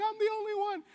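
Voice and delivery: self-pitying Elijah. Retold or imitated. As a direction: ham up the lonely prophet's despair. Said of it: "he's like".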